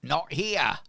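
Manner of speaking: loud, high call back; shouted call. Acted. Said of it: "And she shouts, uh, across to you".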